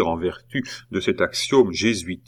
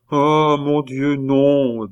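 slow, higher bitter lament; 6 semitones higher, 3 dB louder, much slower than usual. A narrator's reading. Nephew answering his mocking aunt, bitter. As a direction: sigh it out with bitterness. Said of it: "dit amèrement Pitou".

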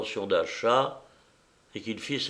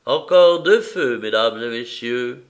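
notary's announcement; 8 dB louder than usual. A narrator's reading. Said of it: "Le notaire prévint".

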